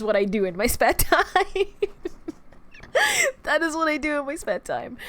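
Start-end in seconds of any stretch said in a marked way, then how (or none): 3.4-5.0 a higher, odd, whimpery put-on voice; mock-tearful silly voice; strange little voice. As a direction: redo it as one of your strange little voices. Repeats line in strange voice.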